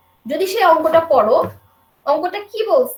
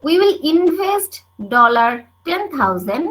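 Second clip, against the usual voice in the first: slow, deliberate reading aloud; much slower than usual. Acted. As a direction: read the problem out word by word. Reads the word problem aloud.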